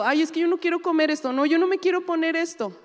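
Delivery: high, whiny mock child complaining. Pastor mocking children who whine about food and clothes. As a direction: whine like a spoiled kid refusing.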